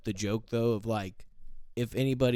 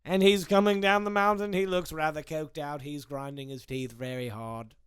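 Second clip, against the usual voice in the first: mock sports commentary; 2 semitones higher than usual. Commentator describing the coked-out snowboarder's descent, mock-serious play-by-play. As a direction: call the run like a prim commentator.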